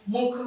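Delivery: "मुख" with an audible aspirated kha at the end; final ख sounded. Shown as a demonstration. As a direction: release the final ख of "मुख" clearly. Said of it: "ख उच्चारण हो रहा है".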